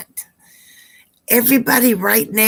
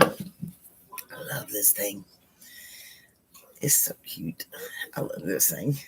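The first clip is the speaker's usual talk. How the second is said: soft cooing; 10 semitones lower, 13 dB quieter than usual. Real, not acted. Cooing over a cute decoration.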